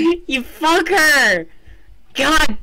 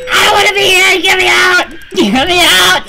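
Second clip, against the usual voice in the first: begging to escape; scared pleading; 4 semitones higher, faster than usual. Real, not acted. Player trapped in level, scared plea.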